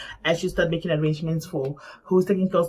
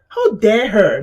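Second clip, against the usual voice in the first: louder, indignant retort; retold outrage, punched out loud; upset; 6 dB louder, slower than usual. Speaker reacts to friend's accusation, upset and indignant. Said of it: "I even started to get upset".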